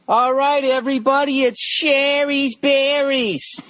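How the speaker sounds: high, slow announcer intro. Acted. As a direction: announce it like a commercial. Starting an ad read.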